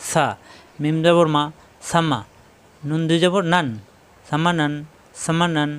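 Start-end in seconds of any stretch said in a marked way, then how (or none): 0.1-0.2 "সা" with a soft s at the teeth; tongue tip near the teeth for a gentle "সা". Shown as a demonstration. Teacher showing where the letter forms, soft s in "সা". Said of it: "জিহ্বার আগে দাঁতের আগে নরম করে".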